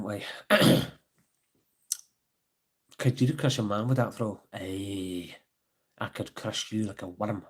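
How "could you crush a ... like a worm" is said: put-on Scottish accent. Quoting lines in Scottish accent.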